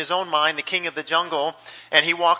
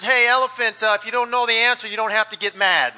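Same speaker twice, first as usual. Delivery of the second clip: woozy lion; 3 semitones higher than usual. Acted. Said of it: "the lion is woozy and shaky".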